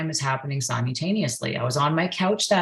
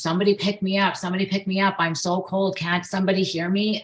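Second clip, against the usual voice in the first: retold baby's scream; 5 semitones higher, faster than usual. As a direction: imitate a desperate cry for help without shouting. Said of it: "screaming at the top of my lungs".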